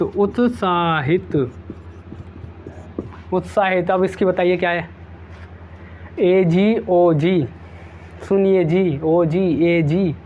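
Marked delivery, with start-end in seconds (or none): 6.2-10.1 ए जी ओ जी drawn out slowly like a wife calling her husband; slow, coaxing wifely call; lightly voiced wife calling her husband; imitating a wife. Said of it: "क्या कहती हैं wife लोग".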